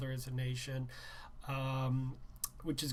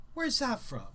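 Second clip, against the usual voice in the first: teacher voice; 9 semitones higher, 5 dB louder than usual. Acted.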